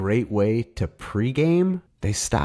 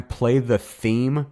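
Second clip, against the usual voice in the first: drawn out; 5 semitones higher, much slower than usual. Retold or imitated. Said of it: "by the time".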